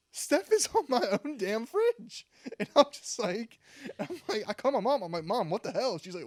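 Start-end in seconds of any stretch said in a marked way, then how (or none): 0.1-2.3 high, loud, drawn-out indignation; mock outrage. Son spotting friend's photo on his fridge, loud mock outrage. 5.2-6.0 raised, louder mock protest; retold indignation. Son calling mom about the fridge photo, mock indignant. Acts out confronting his mother.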